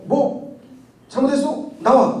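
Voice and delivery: high, shouted dare to step outside; angry challenge. Retold or imitated. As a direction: call him out to fight. Southern man challenging to a duel.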